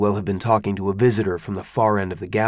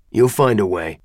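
hard, implacable; 3 dB louder than usual. Acted. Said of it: "The stranger's voice was hard, implacable".

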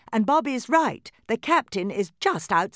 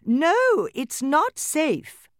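high, loud doll mother calling; calling from downstairs; 12 semitones higher, 7 dB louder, much slower than usual. A narrator's reading. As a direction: call up the stairs as Mama doll. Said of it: "Mama doll called from downstairs".

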